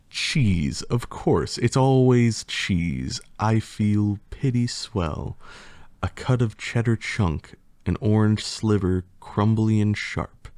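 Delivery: lightly theatrical poem reading; reading a silly poem to the audience with mock drama; hammed-up storybook recital; story narration. Reads rhyming story aloud.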